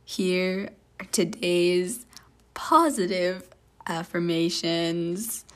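a hint of a slow, low podcast-host read; lightly voiced announcer, slowed down; Joe Rogan voice. Host reading affirmations to the listeners in a light Joe Rogan voice. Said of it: "Why do you sound like you're Joe Rogan?".

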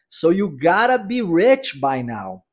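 "So you gotta be rich by now" said slowly, "gotta" tapped; slow model sentence. Shown as a demonstration. Teacher modelling the sentence for repetition, slow. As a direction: say it slowly so learners can copy. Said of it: "Vamos repeti-la?".

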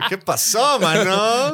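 words through loud laughter; laughing while talking. Real, not acted. Laughing while quoting himself.

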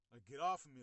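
loud retold demand to get off; urgent protest. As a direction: push the words out, as if struggling free. Retold struggle under pinning officers.

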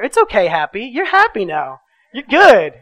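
soothing over screams. Retold or imitated. Father calming screaming foster daughter, loud and soothing. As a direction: comfort her above the screaming.

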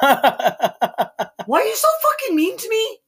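high, slow fake crying wail; mock wail. Mock-sobbing at a mean cohost, high and slow. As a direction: wail it like a wounded victim, half laughing. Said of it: "The conviction in that".

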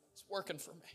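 soft repeat of a declaration; quiet assurance. Real, not acted. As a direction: say it softly, as a settled fact. Quiet repeat after shouted climax.

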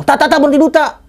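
high, urgent mock call. Telling the friend in front to stop, acted urgent call. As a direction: act out hailing someone up ahead.

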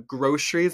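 "groceries" with a heavy sh, GROH-shreez; Michigan groceries. Shown as a demonstration. Creator listing accent video words, Michigan sh groceries. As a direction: turn the s of "groceries" into shh. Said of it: "do a heavy shh".

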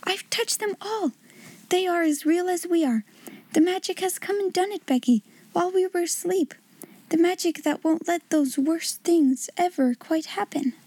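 put-on a little girl marvelling to her friend; awed girl. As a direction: share the secret of the magic. Sarah to Becky, in wonder.

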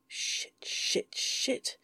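breathy whispered swearing; whispered curses. Acted. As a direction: hiss the curses under your breath.

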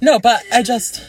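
laughing. Real, not acted. Laughing after joke.

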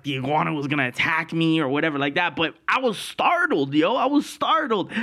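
normal talking voice

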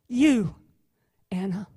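a gentle attorney comforting his client; hushed, reassuring defense attorney; speaking quietly. Acted. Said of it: "he speaks quietly to her".

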